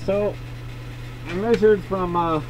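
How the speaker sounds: muffled through a face mask; speaking behind a dust mask. Real, not acted. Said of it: "sorry if it's a little muffled with my mask on".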